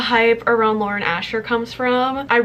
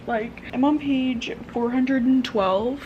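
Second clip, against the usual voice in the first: teary laugh; 3 semitones higher, 3 dB quieter, slower than usual. Real, not acted. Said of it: "this book is literally making me cry right now".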